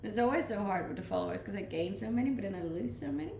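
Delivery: usual speaking voice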